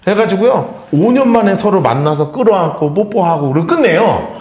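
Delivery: usual speaking voice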